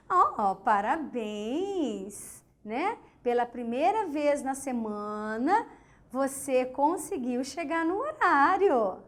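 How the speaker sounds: slow, drawn-out mock praise; ironic congratulations. Shown as a demonstration. To a late student, teacher's sarcastic slow congratulations. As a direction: stretch oh parabéns out, sweet on top and cutting under it. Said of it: "você afirma algo, mas você quer dizer outra coisa".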